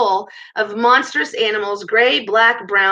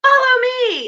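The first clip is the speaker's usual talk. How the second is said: high, drawn-out rallying cry; raised commanding cry, rising higher; battle cry; 13 semitones higher, 5 dB louder than usual. A narrator's reading. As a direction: call the troops to charge. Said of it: "and cried".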